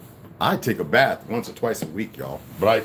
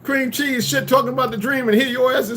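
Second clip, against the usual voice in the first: much higher, excited voice for the friend; astonished friend; 12 semitones higher, 4 dB louder than usual. Retold or imitated. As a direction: play the stunned buddy, pitched way up. Friend retells his dream breakfast.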